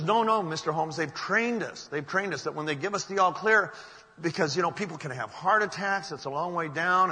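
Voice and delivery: retold insistence, urging a reluctant boss; insistent protest. Retold secretary arguing to go back.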